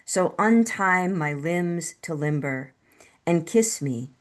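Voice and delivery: measured poem recital with deliberate pauses; unhurried, carefully phrased poetry voice; poetry reading. Acted. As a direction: read your poem line by line, letting each image land. Reads own love poem.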